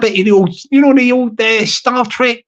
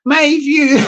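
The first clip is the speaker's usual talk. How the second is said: slightly higher put-on Irish voice; Stevie Boy; 4 semitones higher than usual. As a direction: attempt a mock Irish voice. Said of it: "Stevie Boy don't talk like".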